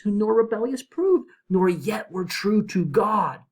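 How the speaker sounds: slow, lifted solemn verse; dramatic poem reading. Acted. Virgil answering Dante, read as solemn verse. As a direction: draw out the judgment gravely.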